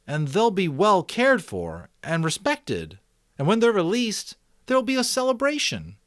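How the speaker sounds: put-on a boy thinking aloud, picking up speed; eager boy Jonas.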